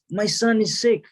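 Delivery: high-pitched, urgent plea at moderate volume; mock yell. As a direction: cry it out like a desperate father, without full volume. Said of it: "he yells out".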